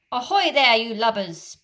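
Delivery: loud hail in a lightly put-on pirate captain voice; Hook imitation. Peter fooling the pirates, loud mock captain hail. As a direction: boom it like the captain. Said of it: "a marvellous imitation of Hook's voice".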